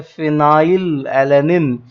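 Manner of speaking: phenylalanine drawn out slowly, F up front; teacher lingering on each syllable of phenylalanine; slow F sound. Shown as a demonstration. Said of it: "में फ की आवाज आ रही है".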